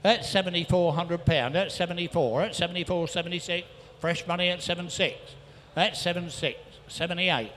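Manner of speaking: rhythmic rapid-fire bid calling; auctioneer calling. Real, not acted. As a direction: rattle off the bids like an auctioneer. Auctioneer taking bids.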